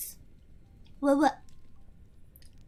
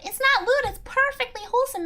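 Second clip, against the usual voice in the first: insistent high protest; 6 semitones higher than usual. Acted. Answering chat, she insists on "not" with a high protest. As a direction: protest up high that it's wholesome. Defending her comment to chat.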